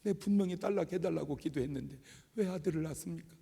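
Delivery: mildly aggrieved, protesting prayer; retold complaint to God, restrained; arguing with God. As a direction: take God to task over the unanswered prayer. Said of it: "근데 따졌어요".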